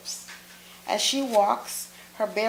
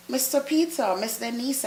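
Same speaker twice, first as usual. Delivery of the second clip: higher, caught-off-guard greeting; startled and flustered; 4 semitones higher than usual. Acted. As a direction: blurt it out, startled. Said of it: "startling me so that I jump guiltily".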